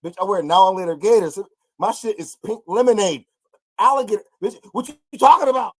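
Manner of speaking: mock Harlem pimp. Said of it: "He's showing her".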